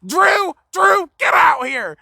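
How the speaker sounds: high, loud mom yell; imitating a mother shouting for her teenager; yelling for her son. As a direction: call the kid out of the house at full voice. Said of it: "she yells".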